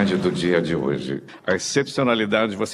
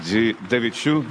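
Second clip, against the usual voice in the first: measured concert-programme announcement, lower and even; radio announcer read; 3 semitones lower than usual. Acted. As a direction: present the programme like a classical radio host. Host's formal concert programme read. (locução formal de rádio clássica)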